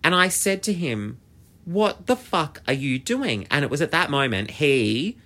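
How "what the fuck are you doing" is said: slow, higher-pitched indignant challenge; retold confrontation. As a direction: confront him, drawing the words out. Retold roadside confrontation with driver.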